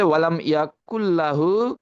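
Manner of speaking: slow Quran recitation of the example; slow recitation demo. Shown as a demonstration. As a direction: recite ওয়ালাম ইয়াকুল্লাহু slowly, joining the lam. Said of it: "যেমন, এখানে হচ্ছে".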